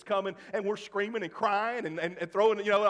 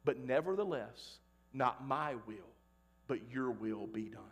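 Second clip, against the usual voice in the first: Jesus praying; 4 semitones lower than usual. Retold or imitated. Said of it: "he says".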